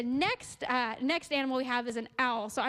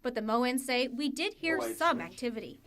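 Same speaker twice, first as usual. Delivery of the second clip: measured TV reporter voice-over; scripted reporter read; news report narration. A narrator's reading. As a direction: narrate it as a local news package.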